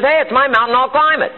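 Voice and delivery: high-pitched, emphatic declaration; defiant resolve. Acted. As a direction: stake the claim to the mountain. Climber defies those who doubt him.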